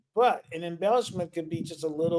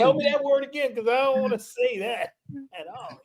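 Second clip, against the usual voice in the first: flustered plea; 9 semitones higher than usual. Retold or imitated. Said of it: "I said".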